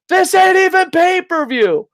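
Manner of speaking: very high, slow put-on voice; hammed-up high quote; movie quote voice. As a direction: squeal the line like the film character. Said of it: "It was just".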